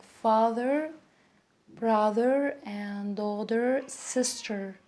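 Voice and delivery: father, brother, daughter, sister with clearly sounded final R; American-style R closing father, brother, daughter, sister. Shown as a demonstration. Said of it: "very clearly".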